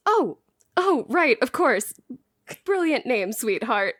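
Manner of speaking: mildly sheepish backpedalling; a little embarrassed. Acted. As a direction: cover a small gaffe with hasty agreement. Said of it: "looking a little embarrassed".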